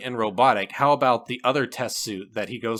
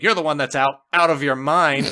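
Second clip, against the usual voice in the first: laughing quip; 6 dB louder than usual. Retold or imitated. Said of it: "and he's like".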